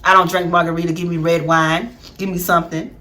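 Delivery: low, cool and soft; sassy refusal. Pretend. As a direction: turn him down with attitude. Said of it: "would have been like".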